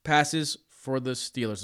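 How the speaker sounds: hiccuping mid-question; words broken by hiccups. Real, not acted. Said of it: "I have the hiccups all of a sudden".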